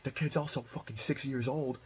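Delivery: high-pitched mock of the drunk dad cussing me out; hammed-up drunk dad snapping back; imitating the angry dad. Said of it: "He's like".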